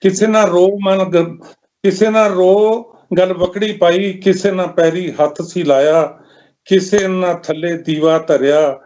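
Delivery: measured lament in verse, pausing between lines; mournful poem recitation. Acted. Poet telling of a mother's lonely funeral, mournful recitation.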